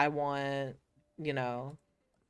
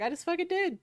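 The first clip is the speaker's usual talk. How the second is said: mock defiance; 8 semitones higher, much faster than usual. Retold defiant comeback at coworker.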